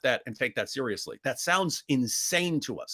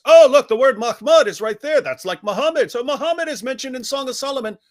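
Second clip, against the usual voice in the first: higher, louder eager apologist voice, mocking; 7 semitones higher, 7 dB louder than usual. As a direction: play the overeager apologist finding proof. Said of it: "one of your apologists says".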